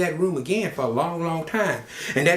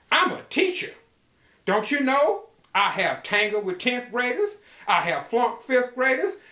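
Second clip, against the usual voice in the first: lightly voiced proud schoolteacher, higher; bold teacher lady; 4 semitones higher than usual. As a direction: brag like a fearless teacher. Teacher lady boasts bravely.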